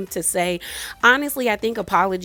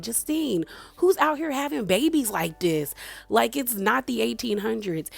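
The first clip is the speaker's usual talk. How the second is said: higher-pitched incredulous reproach; mock scolding; 4 semitones higher than usual. Mother scolding Justine about babies, mock incredulous reproach. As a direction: imitate an exasperated mother, pitched up.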